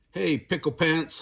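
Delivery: put-on a mother's light holler at her boy; mild holler. Mama calls to her kitty boy, a mild holler. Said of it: "hollered Mama".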